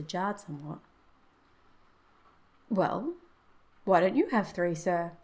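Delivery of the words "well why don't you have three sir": put-on pointed, cheeky young man's question; clever. A narrator's reading. Son challenging the soldier with his question, cleverly. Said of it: "said Herbert White cleverly".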